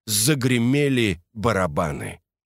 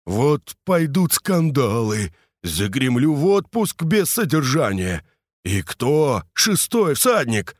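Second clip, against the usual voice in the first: upset; 4 semitones higher than usual. Acted. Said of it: "бормотал подрядчик в расстройстве".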